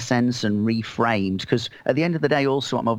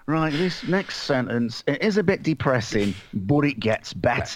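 imitating Andy. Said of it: "And he starts by going".

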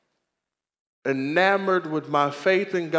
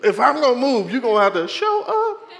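higher, louder demand with a laugh; challenging God; 8 semitones higher, 5 dB louder than usual. Retold or imitated. Pastor repeating his challenge to God, louder. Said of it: "I said it just like that".

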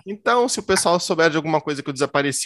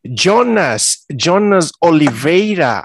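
agent voice; 3 semitones higher, 7 dB louder, much slower than usual. Retold or imitated. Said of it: "sotaque americano ou sotaque carioca".

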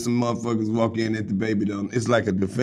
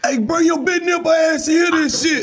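excited shout. Real, not acted. Calling the girlfriend over to hear, high shout.

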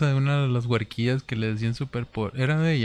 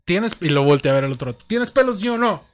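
high-pitched teacher mock; 9 semitones higher, 5 dB louder than usual. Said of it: "Cómo lo dijo".

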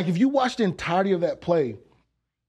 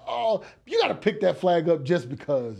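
mock shout. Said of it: "I was like".

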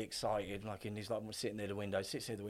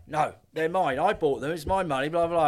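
put-on whiny kid; 5 semitones higher, 10 dB louder than usual. Kid refusing to hand over sweets.

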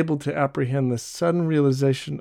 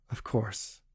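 much softer and lower; quietly; 5 semitones lower, 13 dB quieter than usual. Acted. Jean to Barbe, quietly accepting the task. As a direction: say it low and resolved. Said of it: "he said quietly".

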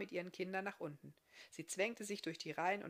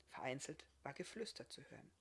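tonlos geflüstert vorgelesen; lässt das Tuscheln hörbar werden; geflüstert erzählt; 4 semitones lower, 11 dB quieter, faster than usual. A narrator's reading. (flüsternd erzählt)

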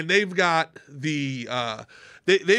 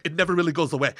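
imitated matter-of-fact Austrian woman; Schwarzenegger's-mother style Austrian accent; much faster than usual. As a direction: lightly put on an Austrian accent. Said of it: "she hasn't lost her accent".

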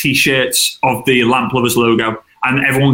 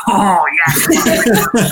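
laughing mock delight; 5 semitones higher than usual. Imagining the friend's delight.

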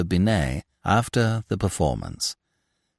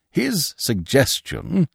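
slow, higher, drawn out; self-important emphasis; 6 semitones higher, slower than usual. Acted. Binet grudgingly shares the credit, self-important. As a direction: stress it as a careful reservation. Pompous boss limits the credit.

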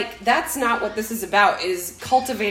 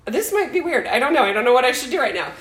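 higher, louder flustered inner voice; flustered self; 4 semitones higher, 3 dB louder, faster than usual. Retold or imitated. Telling the cohost her awkward panic, flustered higher voice. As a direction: play your own panic, a bit higher.

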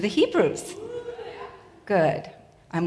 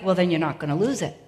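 imitating husband; 4 semitones lower, faster than usual. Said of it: "And he's like".

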